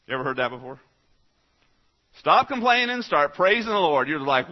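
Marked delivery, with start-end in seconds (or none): 2.2-4.1 preaching exhortation. Real, not acted.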